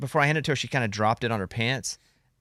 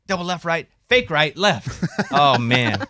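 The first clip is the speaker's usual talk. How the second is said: high, giggly show-off; laughing; 5 semitones higher, 5 dB louder, slower than usual. Real, not acted. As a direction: laugh through the moves. Showing off during hearing test.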